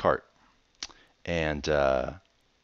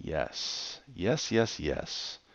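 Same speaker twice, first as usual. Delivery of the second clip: whispered yes; 6 dB quieter, much slower than usual. Real, not acted. Quiet celebration.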